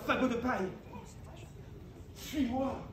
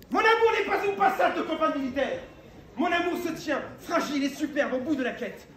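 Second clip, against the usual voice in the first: higher, louder lofty declamation; hammy stage actor; 6 semitones higher, 6 dB louder than usual. Acted. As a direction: declaim like a grand knight. Knight's lofty love speech.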